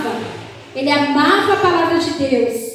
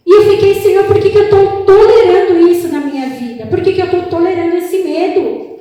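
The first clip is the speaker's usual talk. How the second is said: anguished plea; 5 dB louder than usual. Retold or imitated. Prayer cry to God retold.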